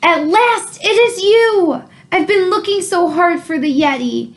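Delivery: put-on eager boy. George eagerly greets the monster.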